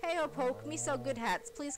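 high, squeaky little creature voice; squeaky pixie voice. Pretend. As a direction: squeak it out like a tiny hat seller. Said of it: "You hear a squeaky voice on the other end".

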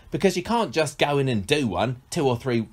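mock accent drifting northern; an impression that strays into northern lingo; slipping into northern. Host quoting an actor, accent slipping into northern. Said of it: "he's getting the northern lingo".

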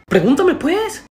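high, loud impatient demand; worked-up outburst. Acted. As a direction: lose your patience loudly. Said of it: "Perdón, me, me exalté".

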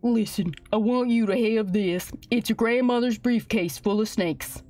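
low cowboy father voice; low, earnest Western dad; solemn dad. Acted. Voices dad handing over gift.

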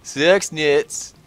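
backwards speech. Pretend. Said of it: "Sounds like you're saying something backwards".

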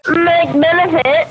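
slow mimicry of the other player; mocking echo. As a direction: drag it out as a jeering copy.

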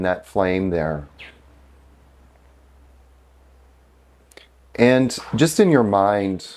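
unhurried meditation guide with long pauses; guided meditation. Real, not acted. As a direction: gently lead them inward, leaving space between phrases.

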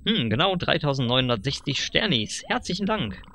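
lightly voiced pushy dealer, rising on the pitch; sly salesman. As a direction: sell it like a slick huckster. (leicht gespielter, schmieriger Händler)

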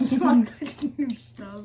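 quoting while laughing; laughing quote. Retold or imitated. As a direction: repeat it through a laugh. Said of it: "He said".

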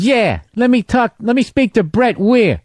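mildly put-on pushy phone voice; prank-call comedy recordings. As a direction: draw out the demand like a crank caller. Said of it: "He goes".

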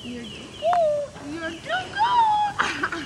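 squeaky dog talk. Real, not acted. Laughing fond chat with dog.

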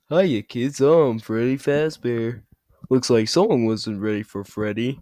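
a hint of a mascot villain; lightly voiced animatronic bear greeting; Freddy Fazbear. Freddy Fazbear greets the kids, lightly voiced mascot. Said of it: "villain voice impressions part two".

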